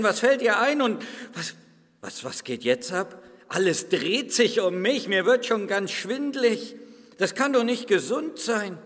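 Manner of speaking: indignant clay lump, lightly voiced; talking lump of clay. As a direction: play a grumpy lump of clay being grabbed. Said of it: "Habt ihr schon mal einen Tonklumpen reden gehört?".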